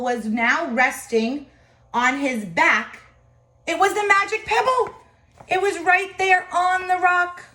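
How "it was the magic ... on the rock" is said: high, loud, fast excitement; excited. A narrator's reading. Narrator telling children about the pebble, excited. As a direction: tell it like a thrilling secret.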